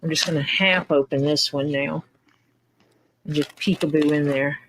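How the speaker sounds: whispered aside to herself; whispering. Real, not acted. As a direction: whisper it under your breath. Opening mail quietly.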